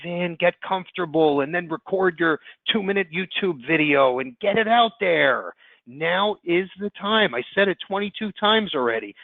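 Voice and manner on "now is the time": "Now is the time" slow and higher, each word weighted; emphatic stress. Real, not acted. Presenter urging agents to market, "Now is the time" slowly stressed. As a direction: drive home "Now is the time", drawn out. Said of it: "I can't stress it enough".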